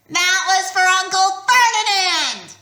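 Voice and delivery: high, loud triumphant yell; yelled back. A narrator's reading. Grover yelling back at Medusa. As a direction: shout it with revenge. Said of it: "Grover yelled back".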